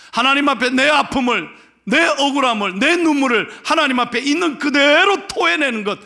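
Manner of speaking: loud, high preacher's cry; impassioned preaching. Real, not acted. Pastor telling congregation what prayer is, impassioned preaching. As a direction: preach it out at full force.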